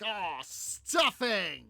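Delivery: hammed-up panicked outburst, stretched out; mock panic. Railroad boys realize a train is coming, mock panic. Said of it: "they're panicking because they realized".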